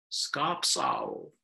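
owl name. Acted. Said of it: "big Japanese scops owl".

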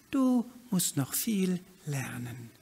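friendly. Acted. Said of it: "sagt die Ente freundlich".

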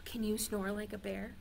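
ordinary talk, nothing marked

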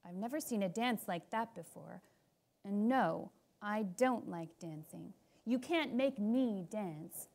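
grumpy humph. Acted. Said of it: "Boris says with a humph".

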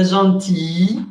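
"Gentilly" with a very long final ee; I súper larga. Shown as a demonstration. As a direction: hold the final i sound of "Gentilly". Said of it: "una I súper larga". ("Gentilly" con una i final muy alargada)

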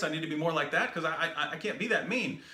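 laughing through a sarcastic reply, fast; mock the idea with a laugh, quick and amused. Real, not acted.

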